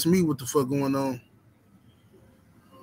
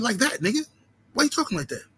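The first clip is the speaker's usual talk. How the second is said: teasing homeboy; 6 semitones higher, faster than usual. Retold or imitated. Homeboy presses the point.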